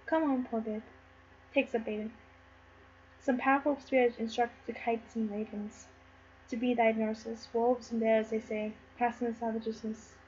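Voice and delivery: low, very soft voice; tender pity. Acted. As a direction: murmur it gently to a doomed baby. Antigonus gently takes up the baby.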